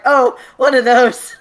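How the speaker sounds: slow mock-casual quote; imitating a shrug. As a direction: drawl it like nothing's odd. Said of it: "You're just like".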